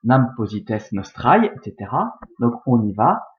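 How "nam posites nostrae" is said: récitation scandée. Shown as a demonstration. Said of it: "si on prend le premier vers par exemple".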